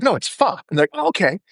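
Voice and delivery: 1 playful mock exchange. Acted back-and-forth over pho.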